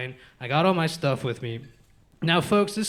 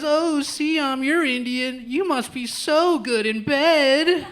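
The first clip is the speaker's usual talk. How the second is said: mock racist stranger; 8 semitones higher, much slower than usual. Racist stranger voiced, higher, slow.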